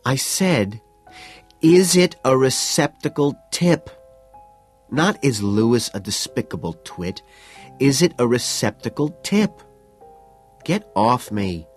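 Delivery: exasperated. A narrator's reading. Exasperated woman repeats misheard question.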